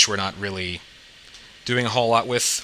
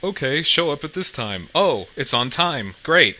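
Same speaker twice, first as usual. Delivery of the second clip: higher-pitched reenactment of a pleased reaction; pleasantly surprised; 6 semitones higher, 3 dB louder than usual. Retold or imitated. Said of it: "I'm like".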